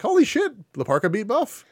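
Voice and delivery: high mock-astonished exclamation, falling away; amazed onlookers, retold. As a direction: act out stunned backstage wrestlers. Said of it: "the boys being like".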